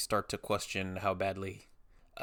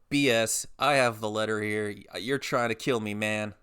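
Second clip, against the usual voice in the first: louder mock-outraged accusation; indignant protest; 6 dB louder than usual. Customer disputing the bill by phone, retold indignant protest. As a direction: push back loudly, retelling an argument.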